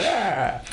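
high-pitched "ah!"; short high yelp of pretend alarm; mock cry of alarm. Host voicing onlookers among spying puppies, mock alarm.

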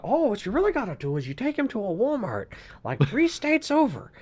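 a lightly voiced teen boy, casual and cheeky; goofy kid rambling bad advice; Wesley impression. Impersonating Wesley advising a parent, lightly voiced. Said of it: "I think Wesley would be like".

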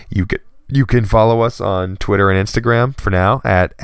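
hiccuping between words; talking through hiccups. Real, not acted. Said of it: "Excuse my hiccups".

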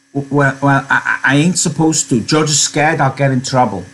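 worried simple man. Acted. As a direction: stumble timidly over an excuse, American accent. Voices Lennie.

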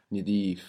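"Nidif" with a short I in the first syllable; Egyptian vowel. Shown as a demonstration. Teacher showing Egyptian dialect, "Nidif" with short I. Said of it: "Might be more Egyptian".

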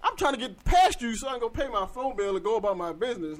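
high, loud exasperated telling-off; reenacting going off on her, loud and high; retold angry outburst. To the woman blocking the Sprint store door, loud angry rant. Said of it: "I was like".

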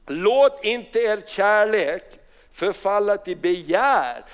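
deliberate, slow reading of the verse; slow scripture reading. Acted. Pastor reads Message Bible verses, slow and deliberate. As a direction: let each line of scripture land slowly.

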